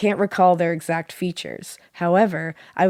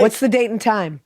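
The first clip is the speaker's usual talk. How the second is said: retold shout; 4 semitones higher than usual. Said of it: "and shouted".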